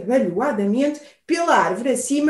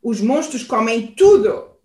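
shrill quack; 3 semitones lower, 3 dB louder than usual. Acted. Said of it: "grasnou o pato, muito estridente".

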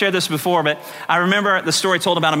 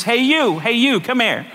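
higher-pitched parrot hailing someone; parrot calling out; 4 semitones higher than usual. Acted. Parrot hears the man return, calling out. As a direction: hail him as a pesky parrot.

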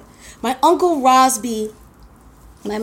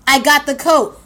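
louder, bragging I got the coat; triumphant boast; 3 semitones higher, 5 dB louder than usual. Real, not acted. Comic telling the audience she won, loud triumph. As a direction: crow about the win. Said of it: "You hear what I'm saying?".

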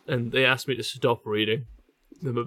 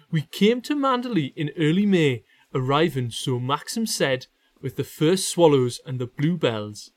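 measured Geordie story reading; reading aloud. Acted. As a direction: read the passage out with care. Reads a novel passage aloud.

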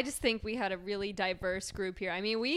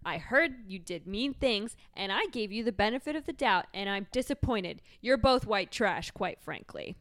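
theatrical wounded indignation; disappointed housewife. Acted. Housewife telling Ramona she is disappointed, hammed-up indignation. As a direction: lay out the grievance, dropping at the end.

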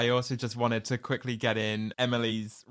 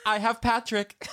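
laughing quote; 12 semitones higher than usual. Retold or imitated. Quoting, laughing.

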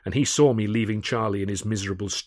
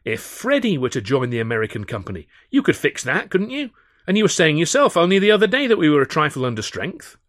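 higher, louder, persuasive; coaxing; 7 semitones higher, 7 dB louder than usual. A narrator's reading. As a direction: lay it on, cheerfully. Coaxing Alf across the pub.

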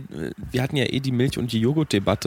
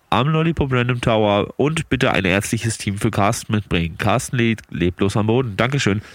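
firm dispatcher call over the radio; radio dispatch announcement; 4 semitones lower than usual. Pretend. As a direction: call it out like park control. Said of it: "mach noch kurz eine Ansage".

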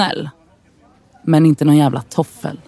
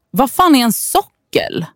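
baffled; 10 semitones higher than usual. Acted. Baffled by unknown word.

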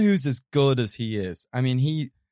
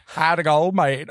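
bad Australian accent; 3 semitones higher, 4 dB louder than usual. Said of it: "he does an Australian accent that is just, like, beyond bad".

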